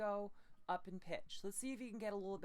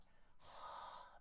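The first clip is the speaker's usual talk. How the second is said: breathy exhale; 7 dB quieter than usual. Shown as a demonstration. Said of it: "is with that".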